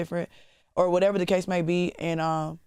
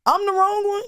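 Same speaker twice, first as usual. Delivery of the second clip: dramatic; 14 semitones higher, 5 dB louder than usual. Real, not acted. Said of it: "I will cry".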